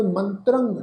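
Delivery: ਮੰਤਰੰ with nasal final ਰੰ; ਮੰਤਰੰ ending nasalised. Shown as a demonstration. Teacher explains ਮੰਤਰੰ's nasal pronunciation to the congregation. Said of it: "ਨਾਸਕ ਉਚਾਰਨ ਹੋਏਗਾ".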